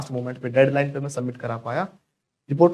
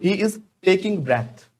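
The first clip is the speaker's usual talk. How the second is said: slow model sentence; 4 semitones higher, much slower than usual. Shown as a demonstration. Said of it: "या फिर".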